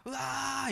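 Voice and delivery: high, held-back cry of rage; mock roar without full volume; restrained angry yell. Shown as a demonstration. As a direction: let out a high "aah" of anger, holding back. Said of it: "소리를 지르고 싶은데".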